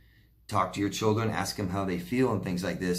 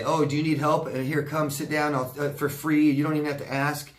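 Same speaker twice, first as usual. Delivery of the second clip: higher, louder overeager do-gooder voice; mock eager helper; 5 semitones higher, 4 dB louder than usual. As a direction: play the pushy free helper, bright and eager. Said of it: "and say".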